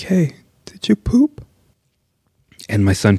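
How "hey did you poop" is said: slow, higher, hushed question; urgent whisper. Retold or imitated. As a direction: whisper it anxiously. Dad whispers to son.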